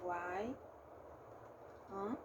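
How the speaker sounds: slow, one syllable at a time. Shown as a demonstration. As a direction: break the word into its syllables. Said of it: "vamos lá".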